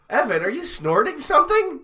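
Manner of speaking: high, startled alarm; shocked question. Acted. Host shocked by drugs.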